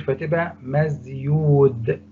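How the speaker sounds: مزيود said slowly, stretching the awkward waw; awkward form. Shown as a demonstration. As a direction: sound out مزيود carefully and slowly. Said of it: "صعبة أوي". (نطق بطيء متكلف لكلمة مزيود)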